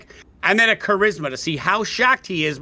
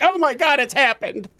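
awestruck gush; 6 semitones higher than usual. Acted. Alchemist awestruck by the hero.

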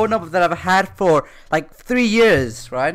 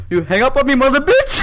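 raised, higher mock rant with an accent; mock angry caller; 8 semitones higher, 7 dB louder than usual. Retelling the angry caller who phoned back, mock yelling. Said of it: "He goes".

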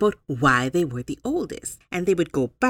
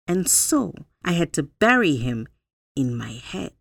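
put-on wise old spider Anansi; 4 semitones higher, 5 dB louder than usual. Anansi gives his judgement.

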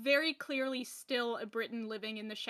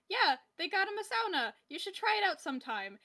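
imitating Paddington; 6 semitones higher, 3 dB louder, faster than usual. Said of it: "Paddington literally says".

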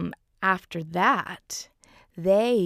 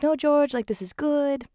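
much higher, lightly voiced wife; Winifred soothing; 10 semitones higher than usual. Wife calming her upset husband George, high and coaxing. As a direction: coax him gently to calm down.

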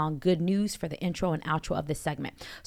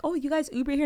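imitating a country accent, much higher; 9 semitones higher, faster than usual. Retelling a comedian's bit in a higher country accent. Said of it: "he was a real country, like, strong sound in his voice".

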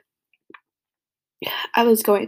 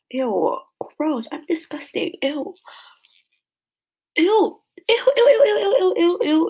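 disgusted; 6 semitones higher, 6 dB louder than usual. Real, not acted. Snot all over her face.

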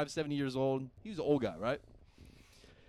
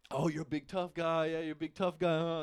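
mocking taunt; 3 semitones higher than usual. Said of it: "just egging him on".

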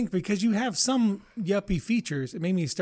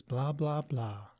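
mocking podcast voice; 3 semitones lower, 6 dB quieter, much slower than usual. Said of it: "those good podcast voices".

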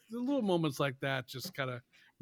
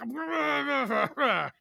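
mock flustered wordless grumble; imitated sputtering; 9 semitones higher, 3 dB louder than usual. Needled actor reacts to fan, mock sputtering. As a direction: sputter as if driven nuts.

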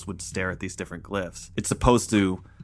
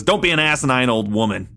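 lightly acted mad scientist's rebuke, raised pitch; 4 semitones higher, 4 dB louder than usual. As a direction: scold like a pompous mad scientist. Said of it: "the mad scientistness is awesome".

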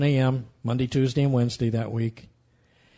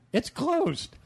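retold alarm; 14 semitones higher than usual. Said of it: "I said, "Regina".

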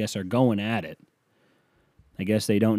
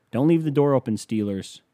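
taunting warning; 3 semitones higher than usual. Real, not acted. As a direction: call it out at the rival team. Taunting the Steelers.

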